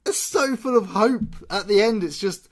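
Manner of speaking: high, slow, insistent enthusiasm; emphatic. Real, not acted. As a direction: stretch it out passionately. Arguing the ending is hopeful.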